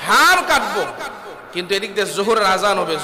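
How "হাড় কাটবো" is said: laughing. Real, not acted. Laughing at meat-cutting crowd.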